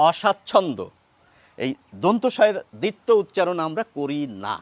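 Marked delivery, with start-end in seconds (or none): 0.1-0.8 অস্বাচ্ছন্দ্য said oshacchhondo, single s; অস্বাচ্ছন্দ্য without a doubled s. Shown as a demonstration. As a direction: say অস্বাচ্ছন্দ্য as o-shacchhondo. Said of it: "আমরা বলি".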